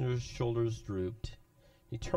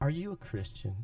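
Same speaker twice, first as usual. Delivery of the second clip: hushed, quiet, reverent voice; 3 semitones higher than usual. Recounting a young friend leaning over to ask him something: imitating a reverent, quiet voice. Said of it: "in a reverent, quiet voice".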